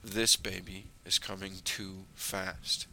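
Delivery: slow, steady, deliberate words; focused voice. Retold or imitated. Wife in labor warns her husband, calm and focused. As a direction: lightly imitate a laboring woman gathering herself to warn. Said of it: "in a very focused voice".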